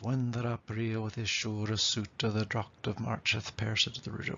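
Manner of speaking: put-on lilting recital of old verse; even, musical Middle English verse; lyrical Middle English. Shown as a demonstration. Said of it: "lovely lyrical sound".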